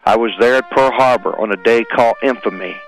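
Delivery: solemn, measured poem reading over music; poem recitation. Acted. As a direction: recite it like a memorial tribute.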